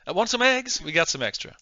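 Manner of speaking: high, bright offer of eggs in a Southern lilt; southern host. Acted. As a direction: play the hospitable Southern host.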